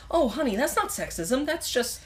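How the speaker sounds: high, patronizing mock boyfriend voice; condescending Jonathan. Mocking Jonathan brushing off Nancy's complaint, condescending. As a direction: coo it like a know-it-all talking down. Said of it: "who's a little too much like".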